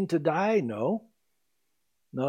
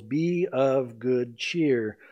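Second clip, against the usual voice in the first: gentle reassurance; 5 semitones lower, much slower than usual. Acted. Jesus speaking gently in the storm.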